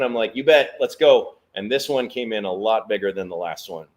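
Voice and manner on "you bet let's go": loud, slow, pumped-up yes; eager. Retold or imitated. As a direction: show you're ready. Eager reply.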